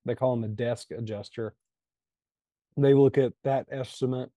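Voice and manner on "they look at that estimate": talking around a piece of ice; ice in mouth. Real, not acted. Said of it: "Sorry, I got a piece of ice in my mouth".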